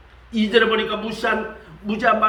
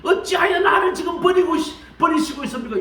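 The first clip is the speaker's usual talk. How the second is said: an anguished call that swells up; crying out to God; 2 semitones higher than usual. Retold or imitated. Preacher voicing Jesus on the cross, crying out. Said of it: "십자가에서 막 외쳤다니까".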